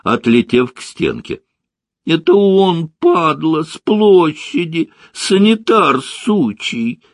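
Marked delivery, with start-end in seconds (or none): 2.0-7.0 high, loud thug's outcry; angry accusation. Acted. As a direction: spit out a high-pitched accusation. Punched thug identifies his attacker, yelling.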